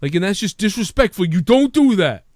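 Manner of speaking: high, loud, slowed scolding; hammed-up outrage; mock indignation. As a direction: lay down the law, offended. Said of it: "then you hear him explaining it".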